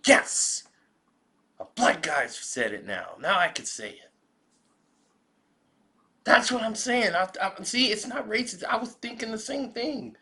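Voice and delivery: excited, high-pitched caricature of white America; mock white America. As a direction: gush in a high put-on voice, relieved to agree. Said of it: "white America go".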